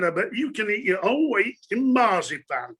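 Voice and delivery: lightly imitated Herefordshire woman; Herefordshire accent. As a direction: tease him in a mock Herefordshire accent. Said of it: "in that Herefordshire accent".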